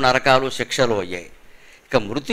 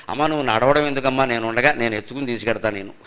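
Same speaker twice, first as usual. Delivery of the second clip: lower, softening retold comfort; gentle reassurance; 6 semitones lower, 4 dB quieter than usual. Son offering to carry his aged mother, gently reassuring. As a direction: soothe her quietly, voice sinking.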